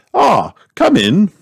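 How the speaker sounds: high, slow regal welcome; very grand voice. A narrator's reading. The Queen admits Miss Rabbit to the palace, grandly. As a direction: grant entry slowly, like royalty. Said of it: "said a very grand voice".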